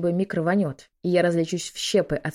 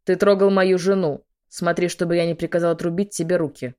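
angry; 5 dB louder than usual. Acted. General threatens Michael.

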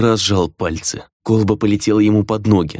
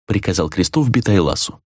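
ordinary delivery

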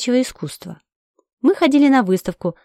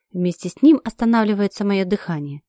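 ordinary delivery, nothing marked

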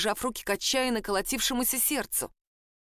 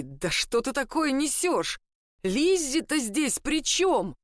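slow, higher disbelieving plea; pleading disbelief; 5 semitones higher, slower than usual. A narrator's reading. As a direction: try to reach your friend. Mike pleading with friend. (недоумённая мольба)

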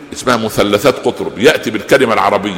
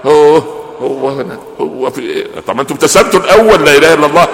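annoyed sisters; 4 semitones higher than usual. Retold or imitated. Sisters fed up with frequent suitor.

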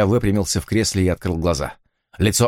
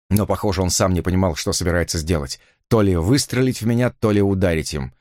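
ordinary delivery

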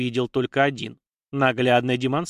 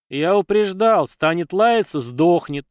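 higher, louder, angry and curt; 5 semitones higher, 5 dB louder, slower than usual. A narrator's reading. Belomir angrily justifies the killing to the riders. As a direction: spit out the warning in anger. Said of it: "зло произнёс Беломир".

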